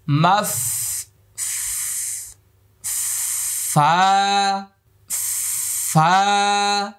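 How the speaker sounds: airy ফা held one beat; airy letter demo. Shown as a demonstration. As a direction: breathe out ফা between teeth and lip. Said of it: "এবার আমি এই হরফটি বলছি".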